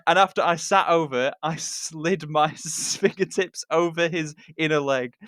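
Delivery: giggling while reading; reading through laughter; laughing. Real, not acted. Reader laughing through the line.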